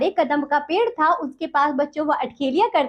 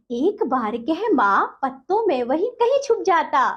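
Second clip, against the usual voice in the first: poem recitation; 2 semitones higher than usual. Acted. Teacher recites poem stanza.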